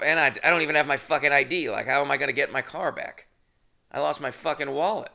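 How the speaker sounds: fast, loud frustrated venting; pissed-off rant. Retold or imitated. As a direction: blow up about the lost ID and wallet. Angry rant about losing car, ID.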